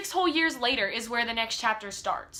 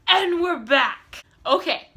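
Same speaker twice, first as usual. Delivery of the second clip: cheery return; 6 semitones higher, 7 dB louder, slower than usual. Real, not acted. Returning after spoiler break.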